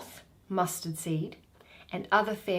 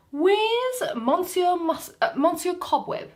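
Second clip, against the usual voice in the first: hammed-up Bottom; 10 semitones higher, 5 dB louder than usual. Bottom calling for his fairy servant, hammed up. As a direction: play the foolish weaver puffed up.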